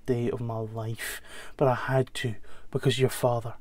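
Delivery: quiet, confessional mother to her son; a hushed, aching admission with halting pauses; remorseful mother. Acted. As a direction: softly explain yourself to your abandoned son.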